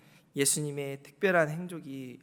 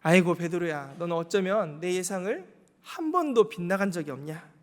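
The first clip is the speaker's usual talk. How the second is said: reproachful; 2 semitones higher, 4 dB louder than usual. Pretend. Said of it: "이런 책망의 눈빛이었을까요?".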